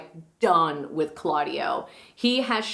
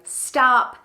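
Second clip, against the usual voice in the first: louder, higher sudden interjection; mock accusing halt; 6 semitones higher, 7 dB louder than usual. Claudio stops his wedding to accuse Hero, acted loudly. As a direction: halt the proceedings with a loud interjection. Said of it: "Claudio was like".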